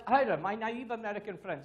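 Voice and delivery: loud, lightly imitated Russian accent; condescending friend with a mock Russian accent; Stan. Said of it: "with my funny Russian accent".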